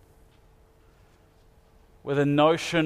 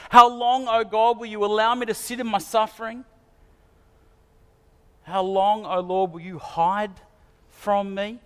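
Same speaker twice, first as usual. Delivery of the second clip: raised, pleading cry to God; cry of lament; 4 semitones higher than usual. Retold or imitated. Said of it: "Have you cried out".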